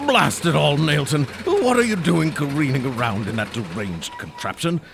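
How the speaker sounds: furious at the reckless driver; angry outburst. Acted. Gaudimer yelling at Nailton after the near collision, angry outburst.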